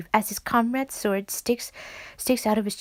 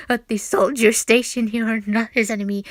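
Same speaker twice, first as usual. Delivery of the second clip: loud declaration; 6 dB louder than usual. Acted. Voicing a game character.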